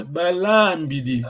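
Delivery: BALAMBIDI said with the LA held long; careful pronunciation. Shown as a demonstration. Teacher showing student how to pronounce it, careful pronunciation. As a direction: model Balambidi carefully, stretching LA. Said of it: "faut bien prononcer".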